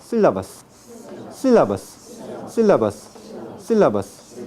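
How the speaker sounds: "sílabas" with a Latin American s; tongue blade, not tip, for each s in "sílabas"; predorsal s in sílabas. Shown as a demonstration. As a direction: drill "sílabas" with flat-tongued s, falling each time. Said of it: "sino con el predorso".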